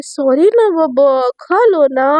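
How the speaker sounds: slow, coaxing sweet plea; sweetly pleading; lovingly. Acted. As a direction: coax her gently to eat. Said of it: "एकदम प्यार से बोलती है".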